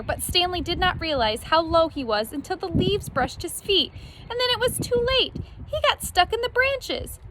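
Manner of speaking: high, tense storytelling build; rising alarm. A narrator's reading. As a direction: build the tension as he sinks. Climax of getting stuck.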